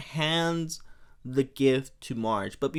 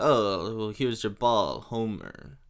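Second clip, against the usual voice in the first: put-on French accent; 5 semitones lower, slower than usual. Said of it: "he's supposed to be French".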